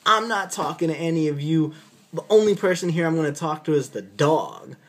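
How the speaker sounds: a hint of a stubborn patient refusing; patient's defiant line. Patient refusing the officers, lightly voiced defiance. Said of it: "he goes".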